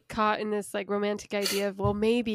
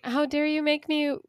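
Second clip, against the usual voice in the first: indignant; 3 semitones higher than usual. Retold or imitated. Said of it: "reticence where she's like".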